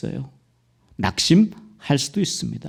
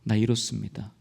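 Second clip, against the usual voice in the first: soft, broken prayer of a weary soul; tearful confession; 3 semitones lower, 5 dB quieter than usual. Retold or imitated. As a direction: confess your distress to God quietly. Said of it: "시편 기자도 그걸 고백한 거예요". (조용히 흐느끼듯 고백하는 기도)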